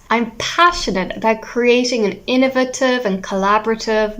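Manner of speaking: musical, confident introduction with key words like "passionate" stressed; expressive stressed reading. Shown as a demonstration. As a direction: read it as a proud introduction, leaning on "innovative" and "collaborative". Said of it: "being expressive is good".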